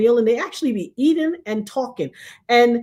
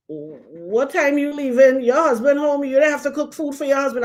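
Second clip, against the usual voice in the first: grandma voice, lightly done; 3 semitones higher than usual. Retold or imitated. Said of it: "she said".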